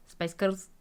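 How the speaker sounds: short Glaswegian catchphrase; Glasgow accent. Acted. Practising the only Scottish phrase she can say, Glasgow accent. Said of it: "only thing I can say in a Glasgow".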